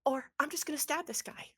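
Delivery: rising panicky threat; terrified threat. Acted. Atticus holding a knife to Henry's throat, lightly voiced panicky threat. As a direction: threaten while scared. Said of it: "she goes".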